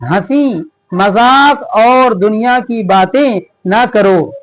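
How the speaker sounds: each word read out slowly and evenly; slow lesson reading. Shown as a demonstration. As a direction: read it aloud clearly for young pupils. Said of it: "reads the lesson text slowly". (बच्चों को पाठ पढ़कर सुनाते हुए, धीरे-धीरे)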